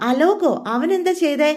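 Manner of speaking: a touch of alarm, jumping up in pitch; shocked question. Retold or imitated. Mitra hears Alok's name, asks in shock.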